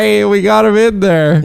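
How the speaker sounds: high excited fan squeal; nerdy fan cheer. Retold or imitated. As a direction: cheer like a giddy nerd in the theater. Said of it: "all the nerds in the theater are like".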